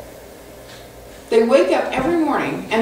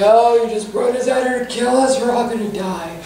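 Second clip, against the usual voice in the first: mock whining complaint. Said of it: "But they start complaining".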